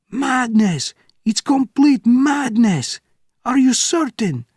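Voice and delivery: high, loud, panicked scream. Acted. Guard officer on the telephone, screaming in panic. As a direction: scream it at the top of your lungs. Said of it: "screamed at the top of his lungs".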